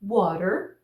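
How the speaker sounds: "water" with a tapped T; American flap T in "water", rising at the end; flap T demo. Shown as a demonstration. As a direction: model "water" with the T softened to a quick tap. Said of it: "vamos ver alguns exemplos aqui".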